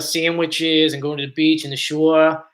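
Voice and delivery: thicker South Jersey vowels; South Jersey accent. Shown as a demonstration. Streamer showing the accent they try to fight, South Jersey accent. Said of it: "that's why I really don't talk like this".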